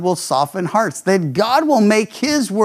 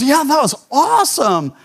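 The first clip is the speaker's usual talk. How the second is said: put-on a light, higher kid voice; kid's voice; 6 semitones higher than usual. Boy praising the radio show, in a light kid voice. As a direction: play the excited boy.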